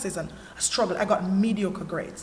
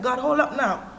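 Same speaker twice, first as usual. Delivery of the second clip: retold angry challenge, raised pitch; angry with God; 5 semitones higher, 4 dB louder than usual. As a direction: confront God, re-enacting the anger in a higher voice. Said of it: "I was angry with God".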